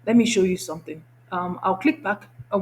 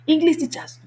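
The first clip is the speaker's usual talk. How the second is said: calling out; 9 semitones higher, 3 dB louder than usual. Real, not acted. Calling out to English teachers.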